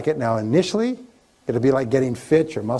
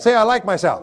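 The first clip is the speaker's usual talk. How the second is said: raised, louder call to the audience with a laugh; leading the affirmation; 8 semitones higher, 4 dB louder than usual. Shown as a demonstration. Speaker cueing the seminar audience, upbeat and louder. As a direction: say it out loud for the crowd to repeat. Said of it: "Say it".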